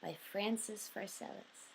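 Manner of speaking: deliberate storybook-style letter reading; measured, emphatic recital of a printed piece; reading aloud. Acted. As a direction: read the letter out clearly, leaning into each phrase opening. Reads famous letter and reply aloud.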